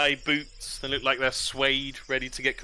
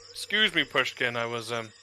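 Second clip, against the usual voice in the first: startled pompous lord. Acted. Lord greets the scout after being woken, flustered. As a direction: put on a flustered upper-class lord. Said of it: "he startles awake and sees you and he's like".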